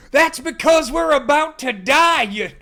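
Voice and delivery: very high, loud, slow Southern wail; Southern panic. Acted. Trucker shouting to his brother, loud Southern wail. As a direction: howl it in doomed terror. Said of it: "they're written Southern, too".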